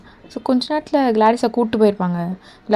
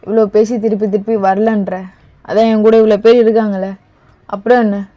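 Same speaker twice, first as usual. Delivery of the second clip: louder, fed-up scolding; a raised, annoyed voice demanding why; exasperated scolding; 6 dB louder than usual. Acted. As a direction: tell her off loudly, out of patience. Exasperated scolding in acted scene.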